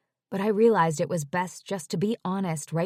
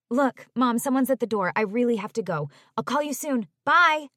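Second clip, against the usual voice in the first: rushed; 4 semitones higher than usual. Acted. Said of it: "in a rush of words".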